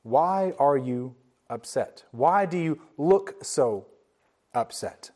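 slow, low, softened voice of a caring God; tender fatherly question. Acted. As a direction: gently ask a hurting son, slowly. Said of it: "he came and he said to Cain".

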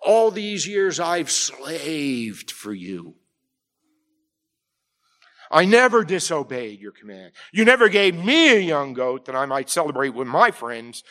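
a hint of a sulking son listing his grievances; elder brother airing resentment to his father, understated; resentful elder brother. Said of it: "he's indignant".

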